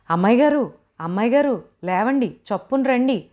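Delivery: frantic servant shouting to wake her; urgent calling out. Acted. Servant calls through banged door.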